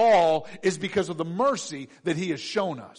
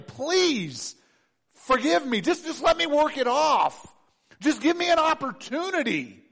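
pleading servant; 6 semitones higher than usual. Acted. Servant begs God for time.

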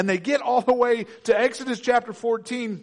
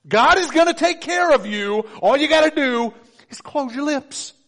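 preaching emphasis; 6 semitones higher, 4 dB louder than usual. Real, not acted. Preacher drives point home.

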